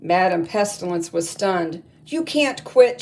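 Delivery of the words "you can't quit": high, loud enraged roar; furious roar. Acted. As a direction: roar it in outrage. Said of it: "she roared".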